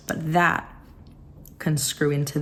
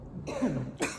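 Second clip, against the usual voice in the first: demonic cough; 2 semitones lower, 9 dB quieter than usual. Real, not acted. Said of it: "Sound like a demon when I do that".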